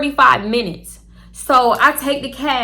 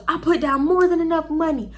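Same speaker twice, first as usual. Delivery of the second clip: higher, defensive mock voice; mimicking boyfriend; 6 semitones higher than usual. Imitating the boyfriend insisting he paid, higher mock whine. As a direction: play him as indignant and whiny. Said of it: "So I'm like".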